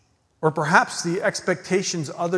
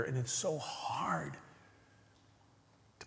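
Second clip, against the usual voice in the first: drops to a whisper on "and it's so hard"; 14 dB quieter than usual. Real, not acted. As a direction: let it fall away into a breath. Drops to a whisper mid-sermon.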